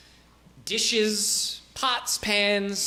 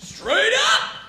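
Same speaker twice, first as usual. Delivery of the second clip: much higher, laid-back dude voice; Dale the peasant; 5 dB louder than usual. Acted. Peasant Dale introduces himself, high and chill. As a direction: shrug it off easily.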